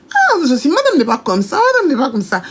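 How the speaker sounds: high-pitched, pleading objection; imitated protest. Imitates an employee protesting on her behalf.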